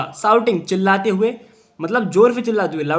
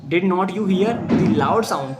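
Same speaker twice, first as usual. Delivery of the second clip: slow read-aloud; much slower than usual. Shown as a demonstration. Teacher reads story for class.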